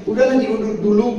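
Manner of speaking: lightly voiced priest urging delay; priest's advice. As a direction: gently talk her into waiting. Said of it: "Kata saya".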